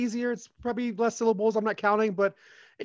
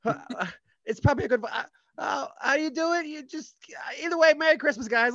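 elf voice; 5 semitones higher than usual. Acted. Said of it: "work on the voice that Chud was using".

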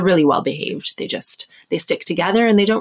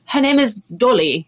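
higher-pitched mock British accent; put-on British accent; 4 semitones higher than usual. Guest introduces her dog to locals, put-on British accent. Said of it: "I say it with an accent".

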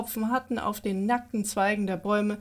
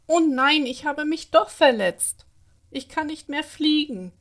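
louder, higher lament over a hurt wing; whimpering lament; 5 semitones higher, 5 dB louder than usual. A narrator's reading. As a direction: wail it like a hurt little fairy. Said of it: "jammerte sie leise".

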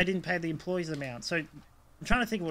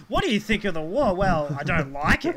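mock Russian accent; 3 semitones higher, 8 dB louder than usual. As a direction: put on a comic Russian accent, projecting loudly. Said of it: "doing a Russian accent to a Russian".

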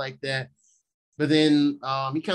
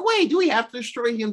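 higher-pitched, mildly alarmed question; lightly acted objection, pitched up; retold protest; 8 semitones higher than usual. Jane questioning the plan to destroy Thor, retold mild protest.

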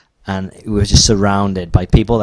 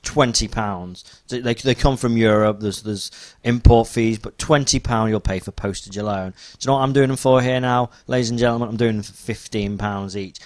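pushy salesman; 3 semitones higher than usual. Retold or imitated. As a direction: sell it like a stall trader. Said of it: "And then he's like".

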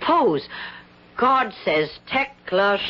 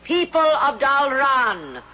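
goddess voice; 7 semitones higher than usual. Acted. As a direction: speak as a divine voice. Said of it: "A divine voice speaks within me".

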